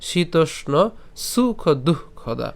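slow, measured Sanskrit verse recitation; shloka recitation. Shown as a demonstration. Teacher repeating the first line for learners, slow recitation. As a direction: recite the line word by word, drawn out. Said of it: "প্রথম লাইনটা আমি আরেকবার বলি".

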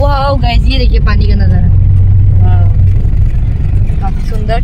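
loud, amazed exclaiming at the view; real awe at the river view; excited wow. Real, not acted. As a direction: gush over the scenery for viewers. Vlogger awed by water view.

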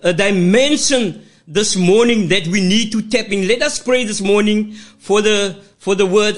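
fervent church prayer, rhythmic and pleading; praying aloud. Acted. Pastor praying over the word before preaching, fervent prayer. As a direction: pray over the congregation with steady fervour.

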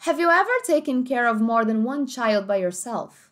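slow, clear American English accent. Shown as a demonstration. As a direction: read it slowly like an American speaker. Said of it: "olha no inglês americano como é que ficaria". (sotaque americano, devagar)

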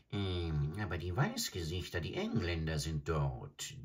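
put-on a scornful old stork sneering; adjutant bird. Adjutant replies.

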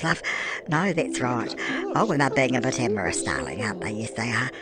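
put-on a chatty old granny gushing over her Sims game; doddery granny cooing "love" at everything; Nana Beryl. Old granny narrating her game to the viewers, doting and tipsy. Persona voice held throughout.

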